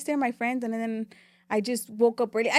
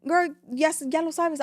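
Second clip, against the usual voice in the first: sassy self-talk; 5 semitones higher than usual. Retold or imitated. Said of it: "I already was like".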